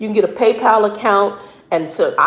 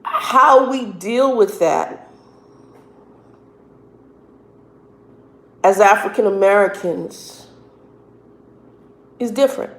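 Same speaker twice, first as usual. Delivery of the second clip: crying. Real, not acted. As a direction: voice breaking with tears. Voice breaking talking of discrimination.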